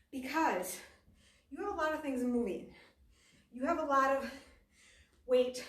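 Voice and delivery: breathless mid-workout; out of breath. Real, not acted. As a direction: talk while gasping for air. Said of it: "Whew, I can't talk".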